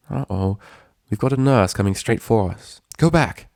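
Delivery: mild panic; alarmed pony. Acted. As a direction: warn them to turn back. Pony warning of nurse.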